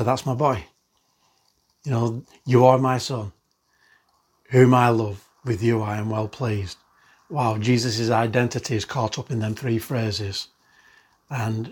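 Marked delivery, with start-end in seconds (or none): 0.0-6.8 hushed paternal warmth; fond father's voice. Acted. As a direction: say it like a father beaming over his son. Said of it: "just to speak out and say".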